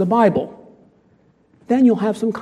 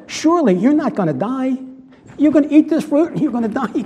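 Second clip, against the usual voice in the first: mock tempter voice; serpent's sly surely; 5 semitones higher than usual. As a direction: tease it out slyly. Quoting the serpent.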